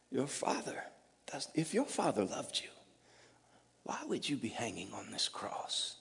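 soft, hissing whisper of a tempter; whispered taunt. Retold or imitated. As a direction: whisper the doubt right into his ear. Voicing the enemy's taunt.

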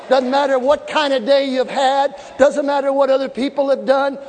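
normal talking voice

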